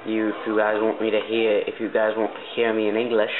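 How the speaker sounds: practised, put-on British accent; Canadian trying on British English. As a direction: speak in an amateur British accent. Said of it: "I'm gonna be doing British".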